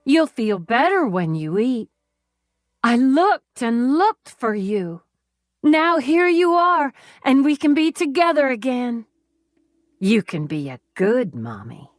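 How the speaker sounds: put-on proud child showing off his cooking; eager childlike captor. A narrator's reading. Captor tells his captive mommy about the soup, eager childish twang. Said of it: "a twangy southern one with a child's cadence".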